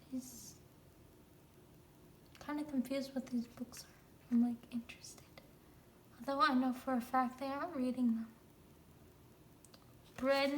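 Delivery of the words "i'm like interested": whisper. Real, not acted.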